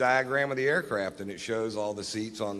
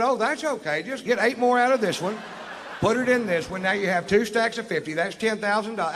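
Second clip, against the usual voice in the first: high patronizing explaining; 11 semitones higher, 4 dB louder than usual. Retold or imitated. Teaching the cop to count money, high and condescending. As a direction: talk down to him like a child. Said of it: "I said".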